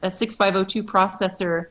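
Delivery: hoarse voice giving out; strained, losing voice. Real, not acted. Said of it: "I'm losing my voice here".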